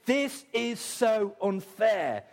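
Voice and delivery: high, slow moaning complaint; a believer whining to God that life is unfair; whiny complaint. Acted. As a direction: drag out the grievance, pleading. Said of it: "who's asked that question".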